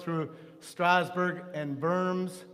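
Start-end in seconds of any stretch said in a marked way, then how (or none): 1.8-2.5 "Worms" with a V sound for the W; German pronunciation. Real, not acted. Teacher tracing the Rhine north through German towns, German pronunciation. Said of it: "W in German is pronounced B".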